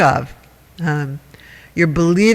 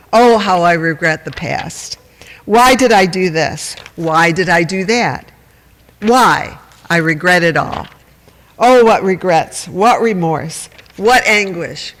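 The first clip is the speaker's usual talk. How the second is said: mock anguish; 3 dB louder than usual. Voicing a melodramatic regretful person.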